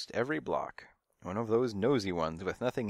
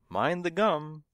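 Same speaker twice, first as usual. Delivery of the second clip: louder, higher call; calling after; 6 semitones higher, 6 dB louder, slower than usual. A narrator's reading. Old woman calls after the departing cat, loud. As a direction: call it down the street after him. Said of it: "she called after me".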